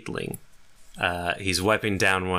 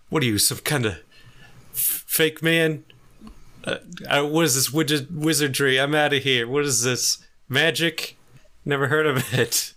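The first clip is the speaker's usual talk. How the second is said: high-pitched, stammering bewilderment; hammed-up panic, backing away from wizardry; freaked-out robber; 7 semitones higher than usual. Robber panics at the fake arm.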